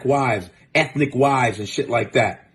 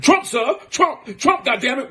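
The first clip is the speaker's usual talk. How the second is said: mock scared kid; 9 semitones higher than usual. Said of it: "He goes".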